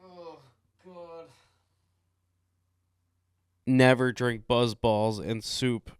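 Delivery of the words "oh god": quiet groan. Real, not acted. Hungover groan.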